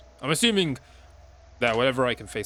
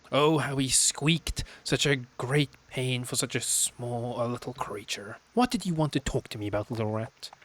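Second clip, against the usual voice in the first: gloating sister; 2 semitones higher than usual. Acted. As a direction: relish the memory of the rat. Sister relishes the cruelty.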